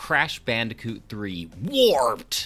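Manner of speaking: aggressive narrator announcer voice. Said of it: "the narrator says that so aggressively".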